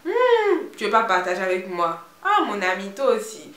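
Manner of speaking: put-on loud, high pleading in an Ivorian accent; hammed-up Ivorian-accented begging, with a high whining hum. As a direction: wheedle for secrets like a pestering Ivorian friend. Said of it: "c'est avec l'accent ivoirien qui va avec".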